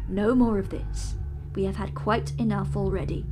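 a touch of sternness, settling him down; mild stern command. Acted. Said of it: "I said sternly".

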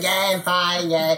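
put-on second, broader stab at an Australian accent; Rocket. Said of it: "I can't do his".

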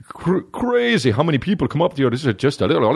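mock Irish buddy sliding into gibberish; imitated Irish accent. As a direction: imitate an Irishman nobody can understand. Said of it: "my Irish buddy was with me".

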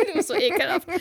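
high voice breaking into giggles; real giggly, interrupted telling; laughing. Real, not acted. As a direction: struggle to go on through laughter. Trying to resume story while laughing.

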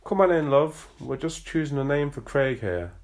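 northern dad calling his daughter in from the door. A narrator's reading. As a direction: call through the house to his daughter. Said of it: "Erin's dad called out".

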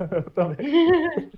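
high, slow, laughing groan; laughing drawn-out whine. Pretend. Joining mock despair, laughing.

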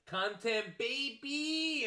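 high, loud, stretched-out cheer; hyped-up catchphrase. Pretend. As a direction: echo it like an over-excited hype man. Echoes co-host as excited catchphrase.

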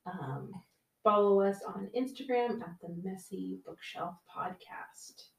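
soft, hushed outro; whispering. Real, not acted. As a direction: speak the outro under your breath. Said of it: "Why are you whispering?".

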